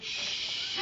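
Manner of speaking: unvoiced shush to silence her; a quick whispered shh; hushing. Hushing the woman.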